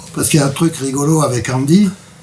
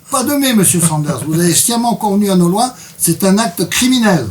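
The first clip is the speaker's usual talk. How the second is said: mildly stern lecture, pitch lifted; condescending judge; 4 semitones higher than usual. Acted. Reader voices judge lecturing the accused, mild condescension. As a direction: lightly scold as if to a juvenile offender. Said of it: "elle s'adressa à moi avec condescendance".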